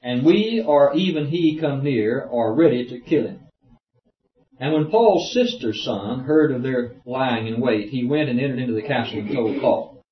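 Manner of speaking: declaimed verse, lifted at the start; formal reading-aloud voice; scripture reading. Acted. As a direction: read the Bible passage out firmly.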